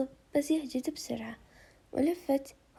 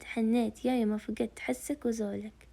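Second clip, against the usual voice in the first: tearful longing. Acted. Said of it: "وهي تبكي".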